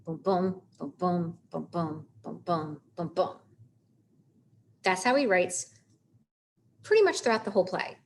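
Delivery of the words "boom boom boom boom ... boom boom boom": "boom, boom" five times in even pairs, weak then strong; five heartbeat pulses. Shown as a demonstration. Teacher counting out five feet of pentameter, heartbeat rhythm. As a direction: chant each "boom, boom" as one iamb, brief gap after. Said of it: "five sets of that".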